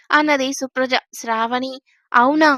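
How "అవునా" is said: sudden loud eager question; eager surprise. Acted. Sravani on hearing her husband is leaving, eager louder surprise. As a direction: perk up, caught off guard.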